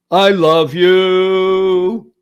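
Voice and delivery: exuberant declaration. Real, not acted. Host tells guest his first point, exuberant declaration. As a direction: stretch every word out with gusto.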